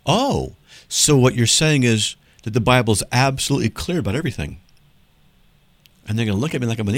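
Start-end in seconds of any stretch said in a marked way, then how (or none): 0.1-4.6 mock-innocent sarcasm. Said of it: "And then I'll say".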